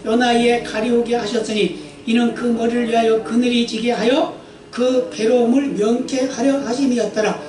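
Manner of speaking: 또박또박 경건하게 읽는 성경 낭독; 회중 앞에서 말씀을 엄숙히 읽어 주듯. Acted. Reads scripture aloud. (설교자가 회중에게 본문을 읽어 주는 경건한 낭독)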